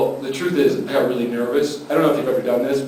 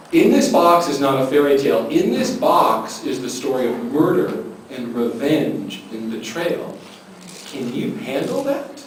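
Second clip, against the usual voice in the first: slow, dropping to a hushed challenge; ominous warning. Retold or imitated. Host warning a guest of murder and betrayal, ominous.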